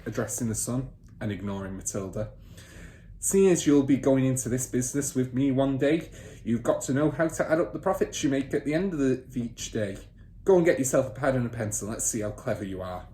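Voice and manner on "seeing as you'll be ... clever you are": lightly voiced smug car dealer father; boastful father. Father bragging to son about cheating buyers, lightly smug. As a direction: brag a little louder, pleased with himself.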